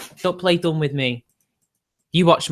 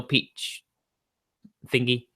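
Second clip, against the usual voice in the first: whispered; 4 semitones lower, 7 dB quieter, much slower than usual. Real, not acted. Streamer murmuring the name again to himself, whispered.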